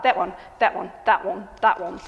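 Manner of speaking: usual speaking voice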